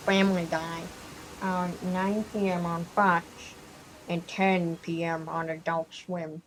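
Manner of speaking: lightly voiced cartoon-dad promo; mock channel announcement in a loose impression; Peter Griffin. Gamer plugging Family Guy's air times, light Peter Griffin impression. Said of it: "Why am I speaking in a Peter Griffin accent".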